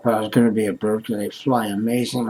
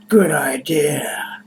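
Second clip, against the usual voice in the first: sarcastic whisper; 2 semitones higher, much slower than usual. Real, not acted. Sarcastic about smoking a joint.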